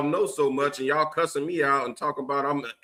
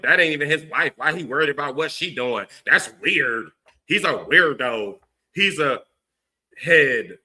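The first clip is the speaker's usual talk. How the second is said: scoffing, hammed-up gossip, a bit louder; mocking the sisters; 3 dB louder than usual. Streamer mimics sisters mocking him, scoffing and louder. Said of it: "you got a lot of sisters coming here like".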